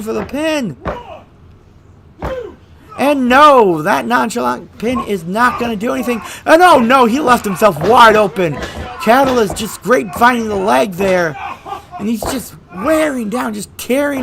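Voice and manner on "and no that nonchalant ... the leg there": loud commentator shout. Acted.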